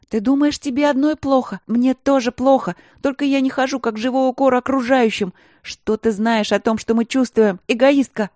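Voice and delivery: high, loud bitter retort; angry shouting. A narrator's reading. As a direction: hurl it back at her. Sister shouts back in anger.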